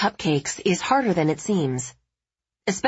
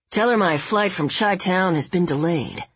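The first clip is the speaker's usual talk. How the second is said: tough guy voice. Acted. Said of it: "his tough guy tone".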